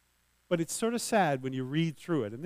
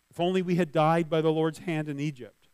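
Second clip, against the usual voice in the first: louder complaint; 3 semitones higher, 7 dB louder than usual. Acted. Repeat of grumbling quote.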